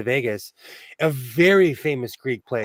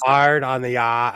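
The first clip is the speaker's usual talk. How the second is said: half-successful Boston accent, lower pitch; 4 semitones lower than usual. Shown as a demonstration. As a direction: practice Boston accent with slipping R's. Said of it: "I gotta practice".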